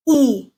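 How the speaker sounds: long tense E, no lip rounding; tense front E. Shown as a demonstration. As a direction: say a clear E with unrounded lips. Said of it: "to be this one here".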